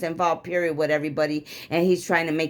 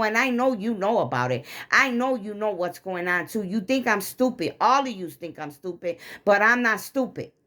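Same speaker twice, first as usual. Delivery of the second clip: mildly heated retold accusation; getting mad; 3 semitones higher than usual. Wife telling husband she is not stupid, mildly mad. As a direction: accuse him, re-enacting some of the anger. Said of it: "when I get mad, I get mad".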